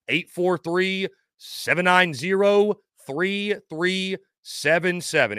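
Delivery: pointedly deliberate dictation; slow for Chuck. Real, not acted. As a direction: spell it out condescendingly, number by number. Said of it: "If you need me to say it slower".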